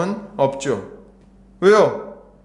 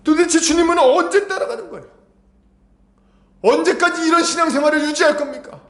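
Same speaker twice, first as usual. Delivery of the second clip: much higher, urgent exhorting voice; impassioned preaching; 12 semitones higher than usual. Real, not acted. Preacher rebuking believers who only applaud from behind, impassioned. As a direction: challenge the congregation with rising fervor.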